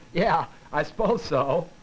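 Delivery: slow, insecure answer broken by a small giggle; nervous giggle. Shown as a demonstration. Lecturer demonstrating an insecure speaker's answer, nervous giggle in the voice. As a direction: let the voice break into an unsure little giggle. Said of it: "nervous giggle obviously signals".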